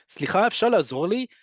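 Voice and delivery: nicely asked. Shown as a demonstration. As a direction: ask gently, with a friendly lift. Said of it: "If you say it nicely".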